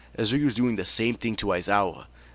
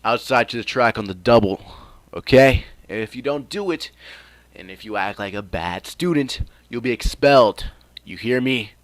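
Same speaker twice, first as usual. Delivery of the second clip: loud barked orders to the class; teacher shouting at new students, loud and stern; strict teacher yelling; 3 semitones higher, 9 dB louder than usual. Acted. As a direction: drill them like a stern sensei.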